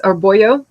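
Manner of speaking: put-on "Boyo" with a y sound in the middle; alternative pronunciation. Shown as a demonstration. Streamer offering another reading of a name, "Boyo" with a y. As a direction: say "Boyo" as BOY-oh, no zh. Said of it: "I don't know why I wanna say that".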